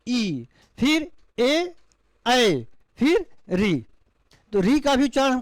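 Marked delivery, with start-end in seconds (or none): 0.1-3.9 ई, ए, ऐ, री drawn out very slowly, each vowel held; slow vowel demo. Shown as a demonstration. Teacher showing the front vowels to students, slow and drawn out. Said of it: "दांत से स्पर्श करते हुए ई".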